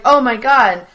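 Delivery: lightly imitated stiff, flat-hearted surprise; wooden acting. Friend re-imitating Jim's wooden line, mild mock. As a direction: say it like a bad actor reading cold. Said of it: "it's more that wooden Jim acting".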